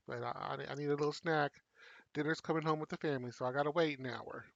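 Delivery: talking while eating chips; munching chips. Real, not acted. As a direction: mouth full of chips. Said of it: "if you hear me munching on some chips".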